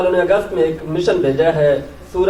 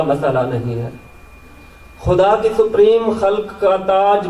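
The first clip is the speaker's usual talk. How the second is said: measured Urdu nazm recital, pauses between phrases; poetry recitation. Acted. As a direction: lift each opening, let the line fall away. Recites own poem to audience.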